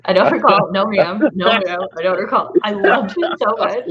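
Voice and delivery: mock witness testimony, short emphatic denials; witness impression. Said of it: "That's pretty good".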